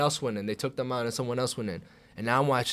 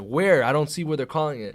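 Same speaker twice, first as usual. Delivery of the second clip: baffled disbelief; 4 semitones higher, 6 dB louder than usual. Retold or imitated. Acting out his disbelieving question.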